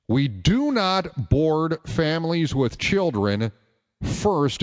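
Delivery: slow, deliberate airline announcement, lightly voiced; gate agent announcement. Delta woman on the PA to complaining parents, slow mock announcement. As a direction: spell it out slowly, imitating a fed-up gate agent. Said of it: "comes on the P A and says".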